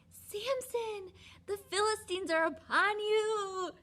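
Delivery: high, loud warning shout; alarm call. Retold or imitated. Delilah's alarm call again.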